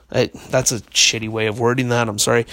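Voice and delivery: losing the voice, worn and tired; hoarse, voice fading out; voice giving out. Real, not acted. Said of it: "I'm losing my voice".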